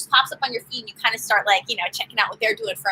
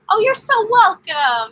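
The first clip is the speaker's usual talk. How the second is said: higher, slow, drawn-out welcome; sing-song thanks; 9 semitones higher, 5 dB louder, slower than usual. Real, not acted. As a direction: stretch the thanks out high and slow. Thanking a viewer for a tip.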